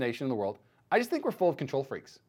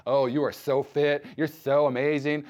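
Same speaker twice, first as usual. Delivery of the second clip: imagined gushing praise; 3 dB louder, slower than usual. Pretend.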